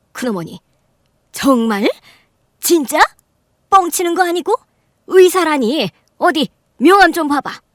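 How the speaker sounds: can't believe he's a doctor, pitch rising; shocked disbelief. Acted. Aunt refusing to believe the groom is a doctor, astonished.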